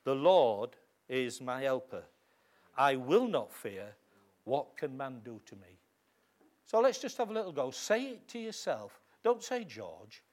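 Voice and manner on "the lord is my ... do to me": slow, confident declaration. Shown as a demonstration. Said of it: "So I can confidently say".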